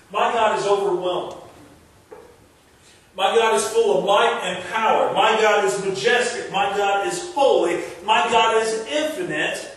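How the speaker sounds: rising, pounding declaration of God's greatness; full-force preaching. Real, not acted. Preacher building to the congregation, pounding preaching.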